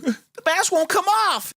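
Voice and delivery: high panicky whine. Retold or imitated. Girl panicking about mask.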